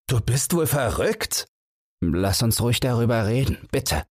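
a hammed-up cry over the clatter; mild shout. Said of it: "schreit in das Gepolter hinein". (Holzer ruft Bang erregt, aber nicht lauter, entgegen)

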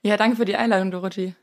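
hoarse, creaky voice after a weekend away. Real, not acted. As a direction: speak with a croaky, worn-out voice. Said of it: "beziehungsweise so einer Knarzstimme".

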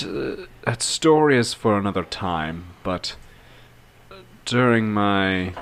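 lightly voiced character confiding his past with deliberate pauses; halting, thoughtful in-character recollection; measured storyteller. Player voices Adelar's confiding speech.

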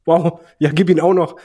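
laut und aufgedreht, wie vor dem Fernseher; begeistertes Anfeuern. Retold or imitated. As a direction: feuere den Wrestler johlend an. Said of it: "ich hab einfach nur gedacht". (aufgeregt anfeuernd)

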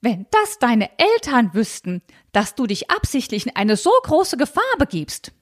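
high, fussy, scandalized aunt voice; high fretful aunt clutching pearls; prim old aunt. Acted. Tante Malchen voiced in reading.

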